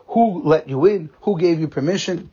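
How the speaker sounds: mild mock yell of outrage; retold screaming. Head waiter confronting the father over the bathroom, mild mock screaming. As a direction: imitate an angry demand, drawing out the words. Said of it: "he started screaming".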